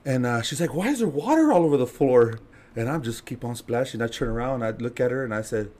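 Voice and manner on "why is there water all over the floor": higher-pitched questioning; puzzled stepmom. Retold or imitated. Stepmom finds him splashing water, puzzled demand. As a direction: imitate a stepmom demanding an explanation.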